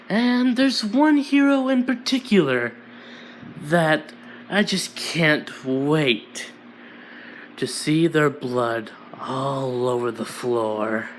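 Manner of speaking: slowed-down sinister villain threat; scary villain. Acted. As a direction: savour every word like a killer. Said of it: "you could be so scary".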